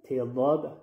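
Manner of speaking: ت linked briefly straight into ضاد; quick "ti" joined to ضاد; short ta. Shown as a demonstration. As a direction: keep ت short before the dad. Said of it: "کوتاهک".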